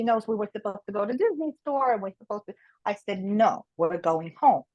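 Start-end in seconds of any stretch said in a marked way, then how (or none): 3.2-4.6 slow, low, no negotiation; firm slow refusal. Retold or imitated. Mother refusing to go back to the store, slow firm no. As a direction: lay it down slowly and lower.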